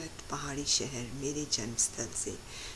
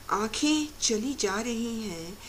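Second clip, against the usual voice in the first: louder, higher repeat of a verse; recited verse, raised and ringing; emphatic poetic refrain; 5 semitones higher, 7 dB louder than usual. Acted. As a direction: lift the line and declaim it. Repeats the line with more force.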